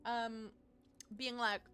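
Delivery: loud mock-hurt whining; whiny pleading. Real, not acted. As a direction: whine at the game like a hurt friend. Pleading with companion character.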